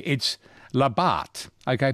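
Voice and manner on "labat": Labat said slowly and carefully; careful pronunciation. Shown as a demonstration. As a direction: sound out Labat deliberately, stressed on the end. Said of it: "get the pronunciation right".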